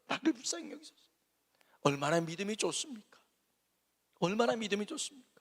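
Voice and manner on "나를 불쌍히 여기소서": faint plea. Retold or imitated. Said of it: "그러는 거예요".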